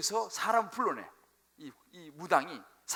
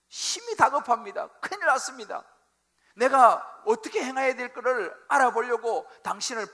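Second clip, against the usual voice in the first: urgent, higher and louder, slowed; desperate plea; 6 semitones higher, 10 dB louder than usual. Acted. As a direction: beg for help in a panic. Saul pleading with Samuel.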